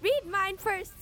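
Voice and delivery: high, eager request; excited. A narrator's reading. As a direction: jump in eagerly. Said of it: "Bowler said excitedly".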